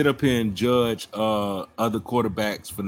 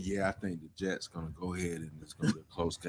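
mock bland pundit; 7 semitones lower, 6 dB quieter, faster than usual.

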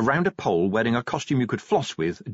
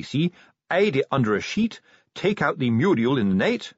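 lightly voiced sergeant spinning a theory; knowing sergeant; 3 semitones higher than usual. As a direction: explain the trick smugly to a corporal. Sergeant explains crafty plan.

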